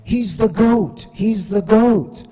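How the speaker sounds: high, slow hyped chant; mock hype chant from coworkers on Slack; coworkers hyping. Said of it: "people on Slack in my old company were like".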